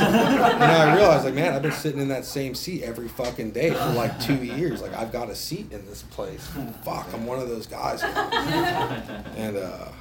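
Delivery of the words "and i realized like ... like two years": laughing realization. Real, not acted. Realizing to the group he has a seat too, laughing. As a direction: crack up at the realization.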